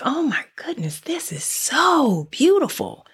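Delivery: high, whispered gasp of wonder; awed whisper. Pretend. Listener at the ocean view, whispering in awe. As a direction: whisper it, overwhelmed by beauty. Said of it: "And it's like".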